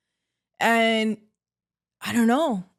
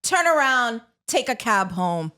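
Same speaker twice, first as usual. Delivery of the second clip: mock bouncer; 4 semitones higher than usual. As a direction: turn them away like a club bouncer. Mock bouncer rejecting guests.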